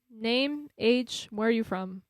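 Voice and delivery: lightly imitated broken English; terse casting questions in mock broken English; stilted broken English, word by word. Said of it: "like, broken English".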